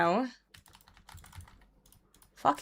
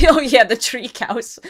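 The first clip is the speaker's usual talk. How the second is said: chuckling, louder and higher; amused laughter through the words; laughing recollection; 4 semitones higher, 6 dB louder than usual. Real, not acted. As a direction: laugh it out at the memory. Recalling grandma's tree cows.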